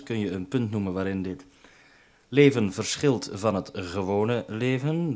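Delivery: reads it back word by word, slow; slow dictation. Real, not acted. Reading the question back to Godfried while writing it down, slowly. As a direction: drag it out as if writing each word. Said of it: "Ik ben even aan het schrijven dus".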